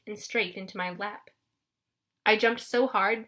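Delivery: plain reading voice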